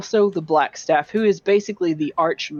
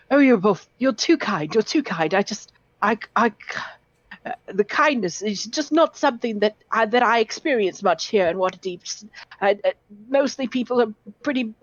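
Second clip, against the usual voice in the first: put-on lightly raised nervous young scholar voice; a shy, stammering bookish lad, a bit higher; 4 semitones higher, faster than usual. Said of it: "he just says".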